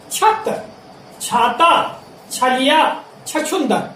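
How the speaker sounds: छत, छाता, छलिया, छछुंदर with aspirated chh; crisp chh opening छत, छाता, छलिया, छछुंदर; example words for छ. Shown as a demonstration. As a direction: read छत, छाता, छलिया, छछुंदर one by one, paused. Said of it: "इन शब्दों के उच्चारण में".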